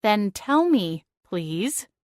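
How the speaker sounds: holding back anger with the cat; through gritted teeth. Acted. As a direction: force "please," out through your teeth. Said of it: "I said through gritted teeth".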